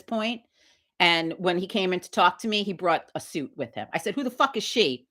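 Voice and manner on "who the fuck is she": retold blunt challenge. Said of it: "Just like that".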